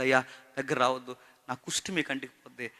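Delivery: a touch of crying in a woman's plea; tearful plea. Retold or imitated. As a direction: plead with him to stay away, quietly. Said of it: "ఆవిడ ఏడుస్తూ".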